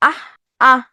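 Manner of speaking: আহ with an audible h at the end; pronunciation demo. Shown as a demonstration. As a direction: sound out আহ, letting the visarga end as h. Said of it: "কিসের মতো উচ্চারণ হয়েছে?". (আহ-এর শেষে হ-এর মতো উচ্চারণ)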